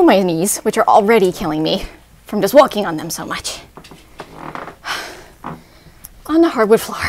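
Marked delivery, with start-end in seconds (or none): 3.7-6.2 long tired exhale; heavy tired exhale. Real, not acted. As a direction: breathe out heavily, spent. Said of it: "out of breath".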